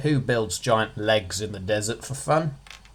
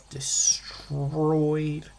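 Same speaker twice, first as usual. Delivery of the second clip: whispered; 2 semitones higher than usual. Shown as a demonstration. Dramatic word on shattered.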